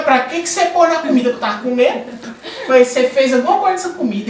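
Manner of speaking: mock accusation. Retells accusing relative over food.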